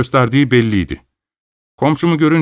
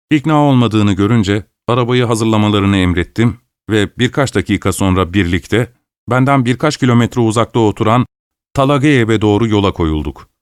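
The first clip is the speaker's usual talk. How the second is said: usual speaking voice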